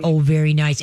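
calm, soothing approval; calm praise. Shown as a demonstration. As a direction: praise evenly without exciting the dog. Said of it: "You wanna keep 'em calm".

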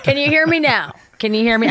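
mock cell phone ad; phone commercial guy. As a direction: hold it up and call out for signal. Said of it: "human satellite dish".

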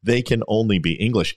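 lightly attempted English accent. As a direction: read it with a hint of an English accent. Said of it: "The Englishman ponders".

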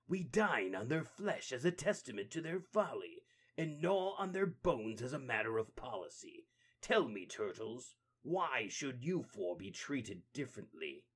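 deliberate, gloating threat; the Rat King taunting the turtles; menacing villain. Acted. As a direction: savour the threat.

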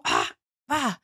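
short mock gasps of amazement; wide-open "ah!" of discovery; awed gasp. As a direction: gasp as if a revelation just hit. Acts out awe at discovery.

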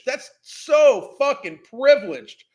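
loud and slowed, each word hammered; slow angry emphasis. Real, not acted. Mocking the woman's privilege, loud slow disgust. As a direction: drag it out in disgust.

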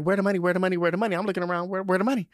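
mock impatient asking the drag mother; eager. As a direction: keep pressing for the money. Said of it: "I was like".

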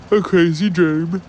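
high, loud and excited. Real, not acted. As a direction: say it with wild anticipation. Excited about coming dream.

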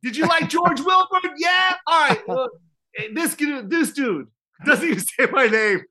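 high-pitched hammed-up emcee shout; mock host banter. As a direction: ham up the emcee working the crowd. Acting out host's crowd banter.

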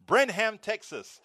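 Brenham said as BREN-ham, both syllables full, stress on the first; Spanish-style Brenham. Retold or imitated. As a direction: Brenham with a clear h and open second a, Spanish style. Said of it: "That's the first city that I was going to".

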